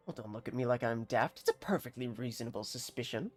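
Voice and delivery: put-on defensive villager in a country accent; bad rustic accent. Villager defends his suspicion to a stranger, bad rustic accent. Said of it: "bear witness to my bad accent".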